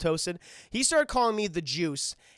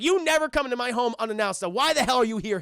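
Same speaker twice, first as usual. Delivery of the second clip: raised, indignant crime boss; mock angry scolding; 4 semitones higher, 4 dB louder than usual. Kingpin berating Hammerhead for coming unannounced, mock angry. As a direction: berate an intruder in a play-acted temper.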